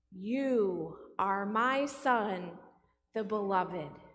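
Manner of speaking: slow, measured voice of the Father; lightly voiced God, drawn out. Preacher recalls the Father's words at the Jordan, lightly voiced God. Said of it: "the voice comes from the Father".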